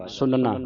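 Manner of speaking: ਸੁਨਣਾ with dental n, then retroflex n; two n sounds. Shown as a demonstration. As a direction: keep both n sounds apart in ਸੁਨਣਾ. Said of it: "ਨੰਨੇ ਦੀ ਆਵਾਜ਼ ਤੇ ਫਿਰ ਨਾਣੇ".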